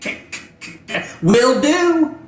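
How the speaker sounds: high, loud, stuttering robot voice. Acted. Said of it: "a robotic voice come over and goes".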